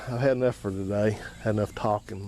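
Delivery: tired hoarse voice from talking. Real, not acted. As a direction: voice worn hoarse after long talk. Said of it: "starting to get hoarse".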